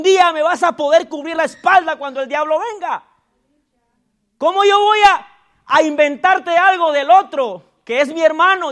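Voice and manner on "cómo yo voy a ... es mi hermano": fervent preaching. Real, not acted. Preaching climax to church.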